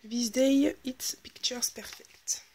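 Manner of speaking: English read with a heavy French accent. Real, not acted. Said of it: "Vous moquez pas de mon accent anglais".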